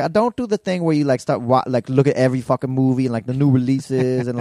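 mildly exasperated imitation of a wife; mock impatience, imitating a fed-up wife; impatient wife. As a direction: retell her impatient complaint, pitch jumping up at the start. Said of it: "she gets so impatient".

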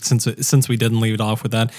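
talking through a mouthful; chewing while talking. Real, not acted. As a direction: mouth full of food. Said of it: "I am eating".

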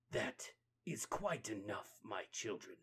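slow, soft, stern command; calm the fight with quiet authority; the Rat King halting the turtles, slow and soft; commanding hush. Acted. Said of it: "bandaged face".

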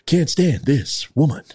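slow, halting Kirk-style drama; lightly done Shatner as Captain Kirk; William Shatner impression. Podcaster riffing on a politician, lightly done Shatner. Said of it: "I almost go into William Shatner".

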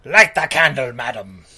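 lightly voiced imperious ghost, pitch dropping at the end; commanding ghost. Ghost orders the woman to light up, commanding. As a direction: intone a mock-stern order.

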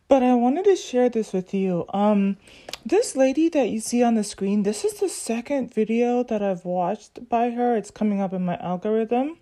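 talking with a face mask on; through a face mask. Real, not acted. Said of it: "I have the mask on my face".

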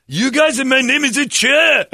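put-on high, loud exasperated Asian accent; mock Asian accent. Golfer correcting partners yet again, mock Asian accent. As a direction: whine it loudly, imitating an Asian accent. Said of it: "Cha was pretty sweet".

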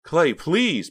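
high, loud desperate plea; begging. A narrator's reading. Pam begs Clay to stop shoving, desperate. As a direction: implore him to stop. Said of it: "Pam begged".

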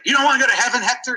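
mock kindly teacher asking a child; nun's question. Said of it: "she's like".

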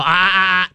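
short repeated warning "ah"; demonstrated warning growl. Shown as a demonstration. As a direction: cut the dog off with a mild growl. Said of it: "you just give 'em a growl".

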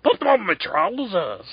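lightly put-on Irish brogue; mock Becky Lynch accent. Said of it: "She has that crazy accent".

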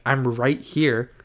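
RIGHT HERE drawn out slowly; imitated slow, spelled-out "I'm right here"; slow, deliberate repeat. Repeated after being asked "What?.

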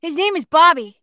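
put-on whiny little complaint as a boy. Bobby fussing over his fuzzy camera, boy voice. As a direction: grumble like a young boy. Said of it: "Do I know that voice?".

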